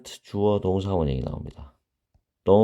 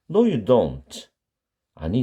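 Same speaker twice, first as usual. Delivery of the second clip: ordinary talk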